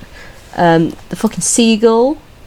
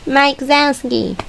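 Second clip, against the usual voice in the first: film quote; 5 semitones higher than usual. Retold or imitated. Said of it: "vocal sims from this film".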